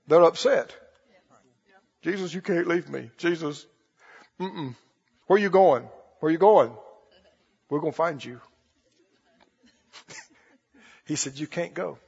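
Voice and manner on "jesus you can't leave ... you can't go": soft, low mock whine of clinging disciples; pleading disciples. Disciples begging Jesus not to go, soft mock whimper. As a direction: play the disciples begging him not to leave, hushed.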